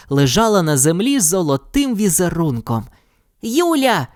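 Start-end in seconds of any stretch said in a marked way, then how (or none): 3.4-4.1 bright high call of her name; eager shout of her name; exclaimed. Acted. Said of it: "вигукнув Євген".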